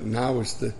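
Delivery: low, soft, breaking into a chuckle; laughing. Real, not acted. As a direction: let a real chuckle take over the end. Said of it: "I don't know why I'm laughing".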